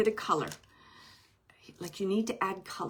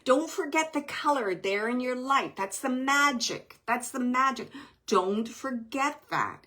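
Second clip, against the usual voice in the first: firm; 4 semitones higher, 3 dB louder than usual. Retold or imitated. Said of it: "He's being very firm about that".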